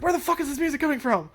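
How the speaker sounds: mock-panicked frog spotting the boss music; frog's panicked rant. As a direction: rattle it off like a flustered frog. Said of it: "and the frog's like".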